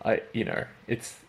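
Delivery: softening, halting reassurance; gentle reassurance. Retold or imitated. Telling the embarrassed person it's okay, retold reassurance. Reassuring someone who botched name.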